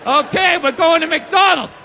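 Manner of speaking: obey like a programmed sleeper agent; hypnotized Manchurian Candidate. Retold or imitated. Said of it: "sit up like the Manchurian Candidate".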